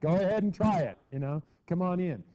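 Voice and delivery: high, loud mock taunt. Hitler daring Britain and France to stop him, loud taunt. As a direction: goad them to try it. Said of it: "kinda going like this to the British and the French".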